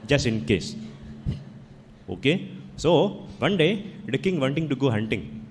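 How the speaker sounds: put-on a light Indian accent telling a fable; lightly voiced Indian storyteller accent; gentle Indian accent, once upon a time. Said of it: "I can tell in an Indian accent".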